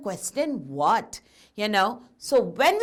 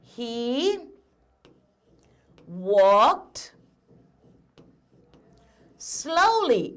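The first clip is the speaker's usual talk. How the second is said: slow word by word; much slower than usual. Shown as a demonstration. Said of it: "My sentence would be like".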